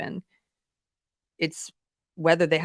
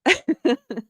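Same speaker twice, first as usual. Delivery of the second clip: sudden high giggle; real laughter; 10 semitones higher, 4 dB louder than usual. Real, not acted. Joke comes back to speaker.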